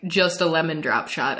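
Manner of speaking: understated puzzled bartender, rising at the end. Retold or imitated. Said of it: "he was so puzzled".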